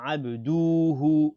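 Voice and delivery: abduhu with du and hu held too long; dragged syllables. Shown as a demonstration. Teacher showing what not to say, overlong abduhu. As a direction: stretch the ending of abduhu. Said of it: "on ne tire pas sur hu".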